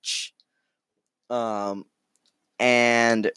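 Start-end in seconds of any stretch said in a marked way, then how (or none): 0.0-0.3 loud, piercing falsetto on the words; high-pitched squeal. Shown as a demonstration. Narrator demonstrates the bar's screams, high-pitched squeal. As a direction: shoot up into a shrieky squeak. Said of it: "all the screams are very high pitch".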